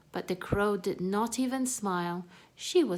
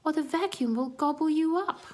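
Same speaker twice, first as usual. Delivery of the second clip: urgent warning; 8 semitones higher, 5 dB louder than usual. Acted. Warning during the vacuum scare.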